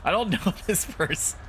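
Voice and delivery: put-on high old-lady voice breaking into laughter; laughing in character. Player cracks up voicing the old lady, laughing in character. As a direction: crack up halfway through the granny line.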